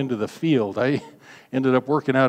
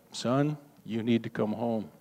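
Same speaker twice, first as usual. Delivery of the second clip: much softer, quiet and tender; gentle fatherly call; 3 semitones lower, 9 dB quieter than usual. Retold or imitated. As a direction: call him home softly, no anger. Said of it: "Not a, a rant of rage".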